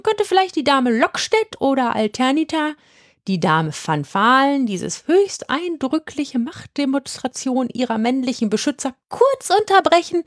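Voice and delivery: high, ornate, teasing witch voice; mock formal witch butting in; mock courtly calling. A narrator's reading. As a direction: call out over the crowd, mockingly polite. Witch calls out mockingly.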